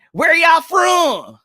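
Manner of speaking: drawn-out shouted call; hollered slow, stretching it to the chat; slow shouted where y'all from. Real, not acted. Streamer calling out to chat.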